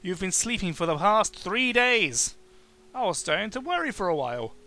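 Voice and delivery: lightly voiced friendly old host; a hint of a gentle innkeeper; kindly host Richard. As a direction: greet the guest like a kind elder.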